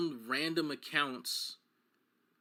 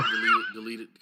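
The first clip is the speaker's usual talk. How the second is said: very high, louder repeated word; mock squeal; 8 dB louder, faster than usual. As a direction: squeak delete like a glitch. Mimicking deletions.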